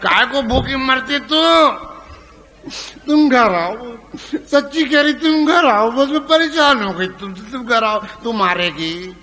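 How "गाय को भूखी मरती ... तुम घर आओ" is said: higher, louder wife begging him home; nagging wife calls her husband home; wife's pleading voice. Retold or imitated.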